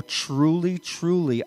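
"Truly, truly" with both words stressed; doubled for emphasis. Acted. Jesus making a serious point, emphatic "Truly, truly". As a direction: give each "Truly" its own weight. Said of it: "The doubling up of "truly".

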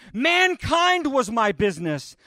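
lightly voiced ghost lament. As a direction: plead like a haunted man. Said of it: "the ghost cried, wringing his hands".

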